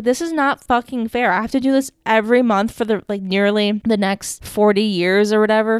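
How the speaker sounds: mock indignant rant; retold teen outrage. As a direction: replay a furious teenage complaint. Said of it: "I was so livid".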